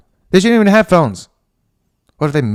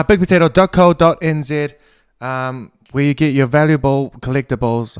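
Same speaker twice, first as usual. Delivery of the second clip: ad read; 2 semitones higher, 3 dB louder than usual. Acted. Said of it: "I'm halfway through an ad".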